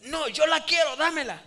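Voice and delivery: put-on a child insisting she gets her way; stubborn little girl. Girl refusing her father at the bank, high loud wail.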